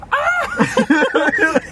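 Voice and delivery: very high imitated scream breaking into laughter; hammed-up squeal of a burning character; mock scream. Retelling her catching fire, laughing mock scream.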